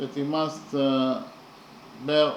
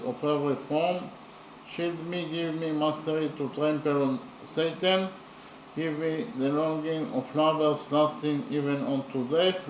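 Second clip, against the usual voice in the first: poem reading. Shown as a demonstration. Teacher reads the English translation of the stanza to students, in a measured recital. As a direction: read it out like a poem to the class. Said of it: "So I read the stanza in the English translation".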